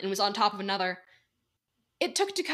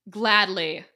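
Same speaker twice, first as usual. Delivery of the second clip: sneering; 5 dB louder than usual. Acted. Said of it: "Jax sneered".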